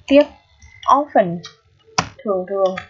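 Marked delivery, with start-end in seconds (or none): 0.8-1.4 "often" begun on an open "aw" sound; open first vowel. Shown as a demonstration. Teacher demonstrates the vowel to learners, clearly modelled. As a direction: model "often" as "AW-fen", silent T. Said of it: "được phát âm là âm ơ".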